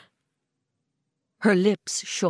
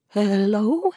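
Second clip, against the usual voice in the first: shaky murmur. A narrator's reading. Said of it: "she murmured shakily".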